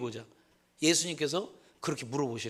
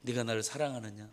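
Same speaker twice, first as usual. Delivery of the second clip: soft, tender "네가 나를 사랑하느냐?" with no accusation; softer "네가 나를 사랑하느냐?", kindly, not grilling; gentle asking; 4 semitones lower, 5 dB quieter than usual. Retold or imitated. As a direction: ask "네가 나를 사랑하느냐?" quietly, as if forgiving. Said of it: "따져 묻고자 하는 거 물음이 아니고".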